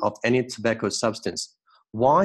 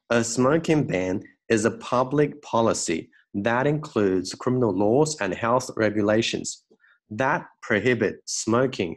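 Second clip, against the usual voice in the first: model reading. Shown as a demonstration. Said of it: "我们来把这块读一下".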